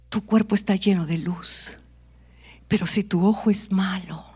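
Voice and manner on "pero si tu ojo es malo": soft, near whispered warning; whispered contrast; hushed. Shown as a demonstration. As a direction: drop to a hush for the bad eye. Good eye set against bad eye.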